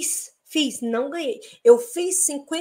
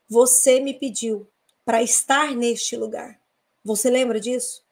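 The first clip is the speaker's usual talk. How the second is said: calm divine voice; slower than usual. Retold or imitated. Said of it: "uma voz me disse o seguinte".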